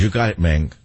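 Puerto Rican gangster accent; thick Puerto Rican accent. Shown as a demonstration. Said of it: "That's more Puerto Rican".

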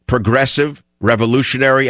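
"progressive" set apart and stressed, then "revolutionary"; emphasis on progressive. Shown as a demonstration. Radio host reading from Mao's book, stress on "progressive". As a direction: lean on "progressive" and "revolutionary" as separate words. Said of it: "Notice the emphasis on the word progressive".

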